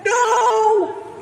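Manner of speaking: sudden shout with a laugh; loud no. Acted. Kid ranting at a video, shouting no with a laugh. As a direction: yell it in mock horror.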